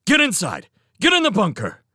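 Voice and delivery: high, loud command; urgent order. Acted. Felix orders Showen into the bunker, loud. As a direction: shout the order.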